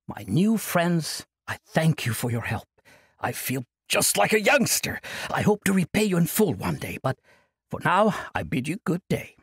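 put-on high-pitched cheerful old monk brushing it off; jovial old monk. Old monk cheerfully refusing Kasai's plea, jovial. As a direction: laugh off the burden like a merry elder.

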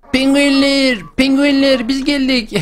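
high, sing-song call to the penguins; bright high greeting; excited call. Pretend. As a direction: hail the penguins like old friends. Calls out to the penguins.

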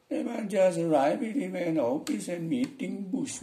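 high-pitched, slow Madurese intonation in English; Madurese accent. Shown as a demonstration. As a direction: speak English with a sing-out Madurese lilt. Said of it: "intonasinya kayak orang Madura".

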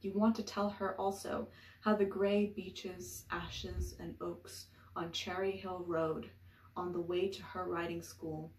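emphatic opening settling into measured verse; deliberate poem recital; poetry reading. Acted. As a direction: recite it line by line, pausing at the breaks. Reads a poem aloud.

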